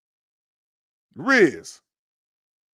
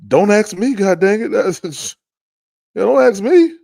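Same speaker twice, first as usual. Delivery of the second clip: exasperated yell; 8 semitones higher, 12 dB louder than usual. Real, not acted. Exasperated yelling at chat.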